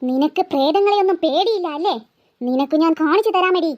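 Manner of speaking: low, deliberate spooky taunt; menacing ghost. Acted. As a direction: threaten like a bloodthirsty ghost, voice dropped. Ghost threatens to drink her blood.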